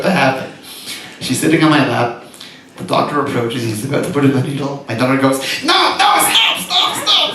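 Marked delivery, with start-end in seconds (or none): 5.6-7.3 put-on a very high, frantic little-girl plea; child's panicked cry. Daughter begs the doctor to stop, high and frantic. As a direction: cry out to stop it like a terrified kid.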